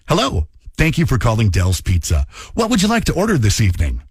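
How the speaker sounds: bright pizza shop phone greeting; a light Minnesotan customer service phone voice; phone work voice. Retold or imitated. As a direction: answer the phone like a polite teen clerk. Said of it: "that was my work voice".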